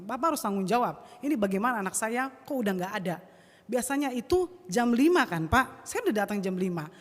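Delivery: retold demand for accountability; moderately heated re-enactment; angry confrontation. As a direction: press the coach for answers. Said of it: "saya marah sekali".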